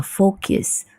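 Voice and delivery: focus said with a y after the k, "fokius"; wrong pronunciation. Shown as a demonstration. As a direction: demonstrate the y-sound error in focus. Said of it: "U-nya seperti kayak ada Y-nya".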